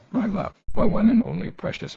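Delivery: frenzied mother. Acted. Mother's frenzied love, voiced.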